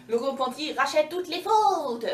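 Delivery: high, slow, solemn bird voice; slow lofty bird sermon; preachy crow. Acted. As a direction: proclaim it like a sanctimonious crow.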